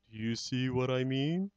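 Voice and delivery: proud and gentle, savouring the moment; lightly voiced Horton, moved; tender elephant. Horton's closing speech.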